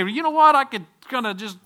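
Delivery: high, loud mock skeptic voice; mocking objector. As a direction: imitate the doubters in the pews. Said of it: "You say".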